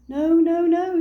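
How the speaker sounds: loud, high triple no; correcting a confused friend; emphatic no. Acted. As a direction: cut him off firmly. Tigger correcting Kipper.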